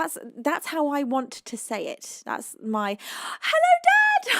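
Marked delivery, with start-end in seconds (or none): 3.4-4.3 calling out hello. Real, not acted. Greeting a viewer's dad.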